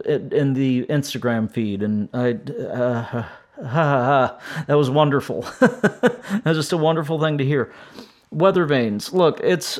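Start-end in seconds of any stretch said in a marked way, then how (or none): 2.6-7.7 laughing. Real, not acted. Laughing at happy memory.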